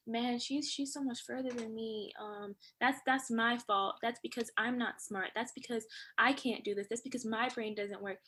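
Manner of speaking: softly voiced self-doubt; self-blame. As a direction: murmur it like private self-criticism. Voicing self-blaming inner talk.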